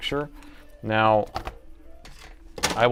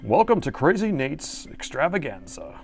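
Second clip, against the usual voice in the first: showman welcome; 4 semitones higher than usual. Acted. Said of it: "The many voices of Crazy Nate".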